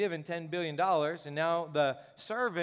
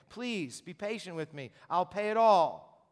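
pleading servant; 3 dB louder, slower than usual. Acted. Servant begging the king.

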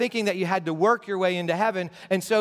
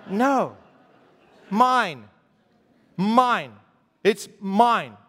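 a mock toddler, louder, grabbing; greedy toddler; 4 dB louder, much slower than usual. Pastor mimics toddler for congregation, mock grabby. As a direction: claim it like a little kid.

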